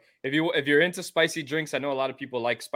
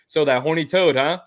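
teasing quote; 3 semitones higher, 7 dB louder than usual. Retold or imitated. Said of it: "people hit me up was like".

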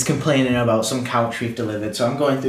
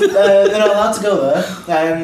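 laughing; 7 semitones higher, 5 dB louder than usual. Retold or imitated. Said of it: "She goes".

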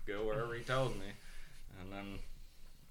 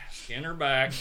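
loud punchline; 4 semitones higher, 8 dB louder, slower than usual. Retold or imitated. Banjo's punchline.

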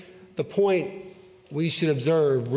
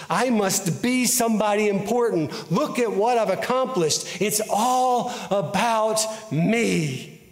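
slightly hammed-up boast, pitched higher; mock self-importance; 3 semitones higher than usual. Preacher voices the temptation Tim Tebow experienced, mock self-important. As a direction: voice a puffed-up ego, drawing out the ending.

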